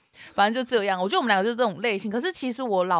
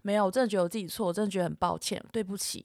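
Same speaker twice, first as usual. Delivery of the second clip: softer, lower, trailing into quiet; contrite apology; 3 semitones lower, 6 dB quieter than usual. Retold or imitated. Apologising to an angry boyfriend, contrite. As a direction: play a subdued apology, getting softer.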